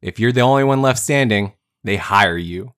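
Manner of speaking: punchy, loud trailer-style read of a tough line; dramatic movie quote. Acted. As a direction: deliver it like a gritty film tagline.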